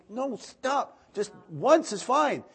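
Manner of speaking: high, loud, slow no, stop; gently but firmly stop the child; firm fatherly correction. Retold or imitated. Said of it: "I'm like".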